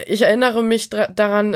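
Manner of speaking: ordinary delivery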